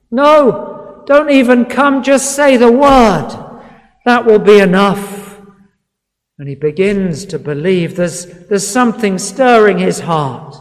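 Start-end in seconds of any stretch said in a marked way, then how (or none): 0.1-5.2 urgent plea. Retold or imitated. Father urges Jesus, voiced.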